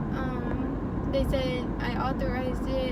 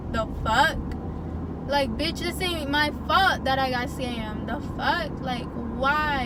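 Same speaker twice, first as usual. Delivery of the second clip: angry venting; 3 dB louder than usual. Real, not acted. Venting about scam to viewers.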